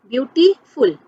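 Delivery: ब्यूटीफुल divided as ब्यूटी, फुल; split into parts. Shown as a demonstration. Teacher showing students the parts, ब्यूटीफुल split in two. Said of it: "ब्यूटी और फुल".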